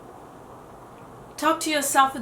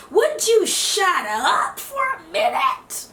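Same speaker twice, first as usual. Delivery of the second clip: annoyed snap; 7 semitones higher, 4 dB louder, slower than usual. Retold or imitated. Someone annoyed by chatter.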